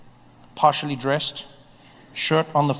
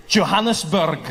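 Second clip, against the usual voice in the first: hammed-up Scottish accent on a foreign city; overdone mock Scottish delivery; fake Scottish accent; 3 semitones higher, slower than usual. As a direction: keep bluffing in butchered Scottish. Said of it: "speak to people in their accent".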